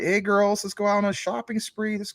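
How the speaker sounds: rally your friends for a shopping spree; mock-excited invitation to a mall trip; excited shopping call. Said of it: "You probably get excited".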